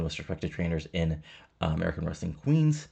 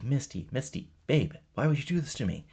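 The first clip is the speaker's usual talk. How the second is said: higher, whiny plea; mock whining; 6 semitones higher than usual. Cassidy pleads with Misty over the match, mock whining. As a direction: whine like a betrayed boyfriend.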